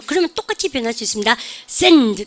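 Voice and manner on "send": "Send" punched out long and strong; stress on SEND. Shown as a demonstration. Teacher showing what sounds loud, stressed "Send". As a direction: hit "Send" hard. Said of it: "크게 들리고".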